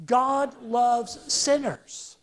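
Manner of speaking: "God loves sinners" drawn out slowly, word by word; slow group recitation. Shown as a demonstration. Preacher leading the congregation in saying "God loves sinners", slow and deliberate. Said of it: "Say that with me".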